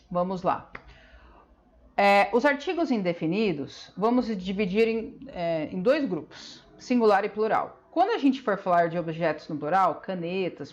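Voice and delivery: ordinary talk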